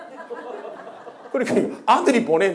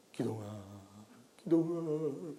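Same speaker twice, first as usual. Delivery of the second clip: tearful calling; 5 semitones lower, 15 dB quieter, slower than usual. Retold or imitated. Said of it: "우시면서".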